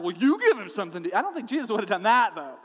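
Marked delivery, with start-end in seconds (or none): 0.0-1.1 sarcastic. Retold or imitated. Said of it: "like, a sarcastic".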